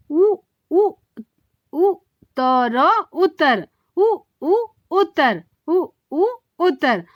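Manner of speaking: "उ, उ" repeated, then "उत्तर" blended; sounding out letters. Shown as a demonstration. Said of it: "उसको हम कैसे आवाज दे रहे हैं". ("उ" खींचकर फिर "उत्तर" बोलना)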